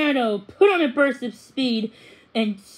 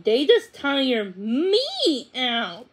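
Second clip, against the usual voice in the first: laughing; much slower than usual. Acted. Mother jokes about tired kids.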